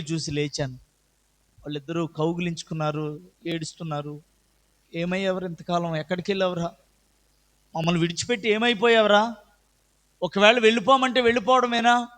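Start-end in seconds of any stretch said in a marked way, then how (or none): 4.9-12.1 retold scolding, building from mild to a loud, higher rebuke; brothers scolding. Older brothers scold their runaway younger brother, building to loud anger. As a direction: start hurt, then rise into an angry telling-off. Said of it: "అన్నయ్యలిద్దరు కూడా తిట్టారు".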